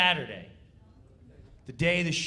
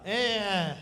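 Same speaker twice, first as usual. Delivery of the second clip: Norm's slack read; 4 dB louder than usual. Retold or imitated. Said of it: "Norm Macdonald".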